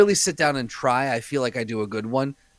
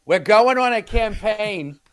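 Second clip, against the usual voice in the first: Matt Damon imitation; 5 semitones higher than usual. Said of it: "Matt Damon just goes".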